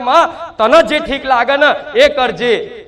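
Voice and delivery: quoting with a light laugh. Retold or imitated. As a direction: laugh through the devotee's words. Goddess quotes devotee's surrender. (હસતાં હસતાં ભક્તના શબ્દો)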